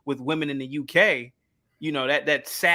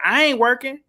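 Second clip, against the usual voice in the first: Meghan Markle; 7 semitones higher than usual. Acted. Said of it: "And she's like".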